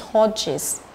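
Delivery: "torches" said slowly as torch-is; slow two-syllable "torches", ending in "is". Shown as a demonstration. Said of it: "cũng là is".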